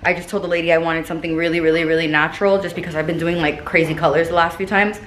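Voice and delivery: slight lisp on s sounds. Real, not acted. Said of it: "Sorry for my lisp as usual".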